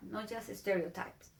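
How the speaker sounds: whisper. Real, not acted.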